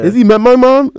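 prim teacher clutching her pearls. Retold or imitated. Teacher shocked at the kid's remark, high prim outrage. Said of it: "some forty-five-year-old teacher".

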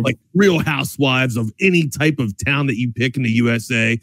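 casual radio sponsor plug; conversational sales read; live ad read. Acted. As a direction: pitch the sponsor like a chatty sports host.

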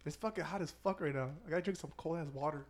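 talking through a burning mouth; mouth burning from spicy food. Real, not acted. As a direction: speak like the hot wings are still burning. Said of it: "my mouth is on fire from the wings".

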